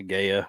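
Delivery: Gaia said as GAY-uh; trying out a pronunciation. Shown as a demonstration. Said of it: "didn't know how to pronounce it".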